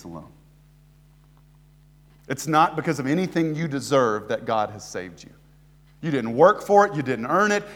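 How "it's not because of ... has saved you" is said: normal talking voice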